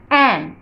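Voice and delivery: "एम" alone, led by an "eh" vowel; letter-sound demo. Shown as a demonstration. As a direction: sound out "एम" for learners. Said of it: "sound सुनिए". ("एम" का शुरुआती स्वर साफ़ बोलना)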